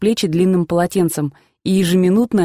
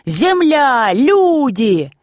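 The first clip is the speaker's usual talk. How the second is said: hoarse shout; 6 semitones higher, much slower than usual. Retold or imitated. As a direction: bellow it hoarsely into an ear. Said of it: "хрипел и кричал в ухо мне".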